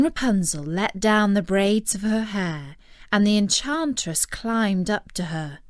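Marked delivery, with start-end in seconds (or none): none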